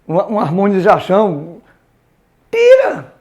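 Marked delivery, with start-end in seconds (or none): 2.5-3.1 high, sudden exclamation; sharp command. Acted. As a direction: call out the order to cut it. Orders the added harmonisation removed.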